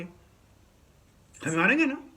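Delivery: slow, stretched mock parent boast; drawn-out boast. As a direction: drag it out like a smug parent. Parents boasting they will slap.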